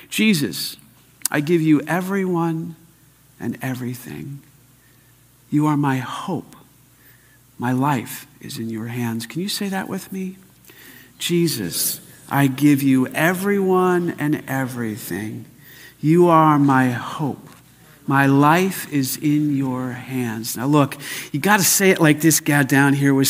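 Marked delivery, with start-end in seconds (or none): 0.1-9.2 measured prayer in short phrases; meditation prayer. Shown as a demonstration. Preacher modelling a little meditation to repeat, prayerful. 11.2-20.5 slow, measured communal recitation; led prayer. Shown as a demonstration. Preacher leading people saying it with him, slow and prayerful.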